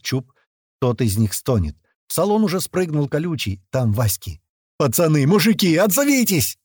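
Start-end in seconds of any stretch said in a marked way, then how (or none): 4.8-6.6 high, pleading call rising higher; yelling out. A narrator's reading. Rescuers to friends trapped in the car, yelling. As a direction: call out to mates who may be hurt. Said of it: "орём мы в три горла".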